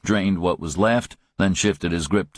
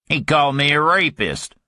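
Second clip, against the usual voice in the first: higher, indignant protest; outraged; 8 semitones higher, 3 dB louder than usual. Acted. Griffin outraged at being called a rapist, raised pitch. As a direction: bristle at the insult.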